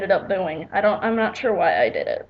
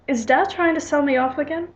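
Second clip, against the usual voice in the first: put-on higher-pitched amateur British accent; 5 semitones higher than usual. Daughter asking her mother about Dad, put-on British accent. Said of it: "like, a British accent".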